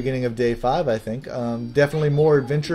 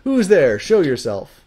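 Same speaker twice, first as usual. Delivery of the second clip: acted alarm; 5 semitones higher, 6 dB louder than usual. Game character challenges an intruder.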